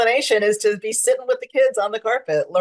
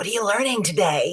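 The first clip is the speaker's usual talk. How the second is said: soft, hushed stage whisper; 3 dB quieter than usual. Retelling sitting on the rug beside second graders: retelling a half-whisper.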